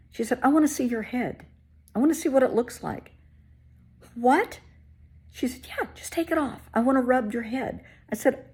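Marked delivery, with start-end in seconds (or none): 0.4-3.1 high, louder wheedling voice; pushy HR woman. Retold or imitated. HR woman begging to see her bald head, high and wheedling. 4.1-4.6 higher, louder disbelieving what; incredulous. Retold or imitated. Answering the HR woman's odd request in shocked disbelief. 5.3-7.8 high, louder wheedling voice; pushy HR woman. Retold or imitated. HR woman begging to see her bald head, high and wheedling.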